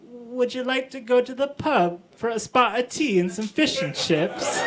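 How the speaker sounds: hammed-up, badly faked British accent. Shown as a demonstration. Auditioning actor asked for British, terrible British accent. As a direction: try your hardest at British and fail. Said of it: "Can you do a British accent?".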